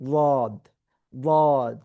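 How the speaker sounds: "ওয়াদ" with a sound halfway between দ and জ; dad between d and z. Shown as a demonstration. Teacher showing students the in-between dad sound. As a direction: blend দ and জ in "ওয়াদ". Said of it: "এর মাঝামাঝি".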